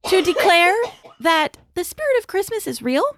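holiday voice. Acted. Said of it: "I love your holiday voice".

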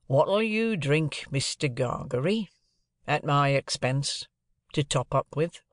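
slow, lightly voiced sly stranger; stranger's offer. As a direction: draw the offer out, coaxing. Stranger repeats offer, slower.

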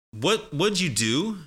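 slow, high demo of "wudjoo do"; common blended question. Shown as a demonstration. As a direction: pitch up and link "would you" with a J. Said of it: "is such a common question".

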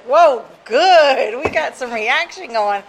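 a counselor thrilled to finally get a reaction; excited counselor. Retold or imitated. Counselor cheering after the kid throws a chair, loud and pleased.

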